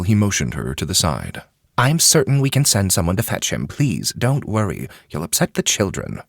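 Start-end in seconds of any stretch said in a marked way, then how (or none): 1.8-6.2 a slightly higher, slowed reassuring voice; calm a worried woman down; Ketsu, reassuring. A narrator's reading. Ketsu calming Wheeler.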